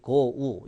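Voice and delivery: "go" split into separate go and u; overdone glide. Shown as a demonstration. Teacher shows how no American would speak, split "go". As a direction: say "go" as two detached vowels. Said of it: "이렇게 발음하는 미국 사람들은 없다는".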